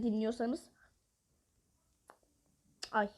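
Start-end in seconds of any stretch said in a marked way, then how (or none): 2.9-3.1 defeated whisper; a whispered sigh of defeat. Real, not acted. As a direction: breathe it out, all hope gone.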